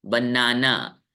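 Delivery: बनाना said ba-naa-naa with both long 'aa's; low, level बनाना, equal syllables; wrong, even reading. Shown as a demonstration. Teacher repeats students' mistaken reading, evenly stressed ba-naa-naa. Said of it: "इसको आप लोग पढ़ते हैं".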